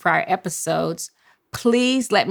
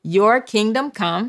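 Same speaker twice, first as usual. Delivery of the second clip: slow call to repeat; 3 semitones higher, slower than usual. Shown as a demonstration. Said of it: "I need for you to say".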